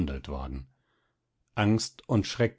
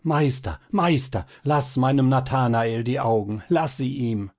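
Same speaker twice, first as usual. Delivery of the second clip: higher, desperate plea; father pleading for his son, voice raised high; 4 semitones higher, 4 dB louder than usual. Acted. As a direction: beg the master to spare the boy. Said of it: "hob mein Vater flehend die Hände empor und rief".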